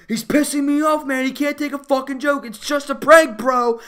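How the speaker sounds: high, loud imitated bro rant; mock angry bully. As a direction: whine indignantly like an offended prankster. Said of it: "that guy was like".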